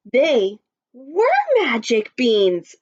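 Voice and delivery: amazed, slow emphatic exclamation; mild shout. Acted. Jack seeing the beanstalk outside, mildly shouted amazement. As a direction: draw it out in storybook wonder. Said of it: "Jack shouted".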